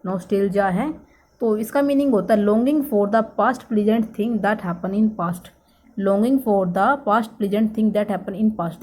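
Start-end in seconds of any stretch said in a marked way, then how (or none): 2.5-5.5 slow dictation. Shown as a demonstration. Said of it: "reading out the meaning slowly". 6.0-8.8 longing for the past spelled out word by word, very slow; very slow dictation. Shown as a demonstration. Teacher dictating the meaning to students, very slowly. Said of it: "repeating meaning slowly for notes".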